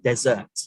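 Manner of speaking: "dessert" as di-ZURT, the food; stress on second syllable. Shown as a demonstration. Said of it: "that we eat after our dinner".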